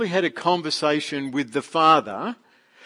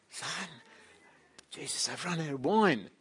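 hushed, much softer, leaning in to his ear; retold whisper; 12 dB quieter than usual. Mary quietly tells Jesus at the table, hushed. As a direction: murmur it like a mother's aside at a feast. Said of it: "She sort of whispered in his ear".

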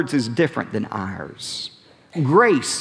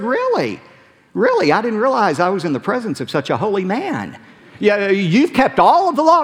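mock amazement; 5 semitones higher than usual. Jesus mocks the ruler's claim.

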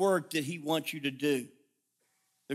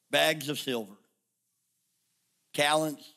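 prayer. Acted. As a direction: speak it gently to God, head bowed. Pastor prays for the congregation.

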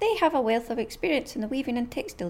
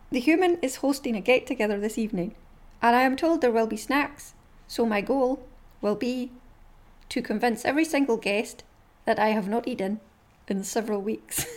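dog's thoughts voice. Acted. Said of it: "read you some more".

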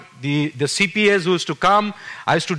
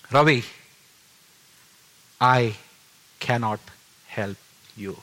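voice from heaven; 5 semitones lower than usual. Retold or imitated. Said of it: "And the voice said".

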